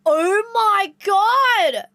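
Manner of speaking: high, loud, hugely drawn-out exclamation; sudden realisation. Retold or imitated. Cousin as it just clicked for her, loud astonished cry. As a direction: stretch it out in imitated amazement. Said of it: "And she just go".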